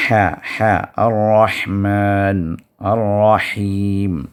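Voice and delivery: ح in الرحمن from the middle of the throat, breathy; الرحمن الرحیم with clear throat ح. Shown as a demonstration. Teacher showing the throat ح in الرحمن. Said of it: "یہ بھی جو ہے وسط حلق سے".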